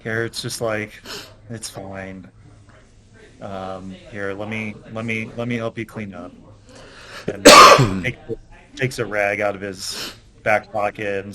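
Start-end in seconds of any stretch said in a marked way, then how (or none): 1.5-6.3 quiet reassurance. Acted. Garrett reassuring the boy.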